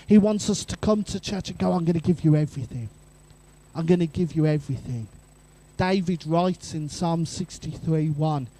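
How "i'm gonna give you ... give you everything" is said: fast, eager promise; earnest, rapid devotion. Retold or imitated. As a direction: pour it all out in a rush. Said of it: "He wants us to be desperate for him".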